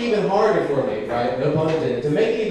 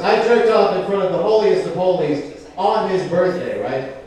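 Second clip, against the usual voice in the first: normal talking voice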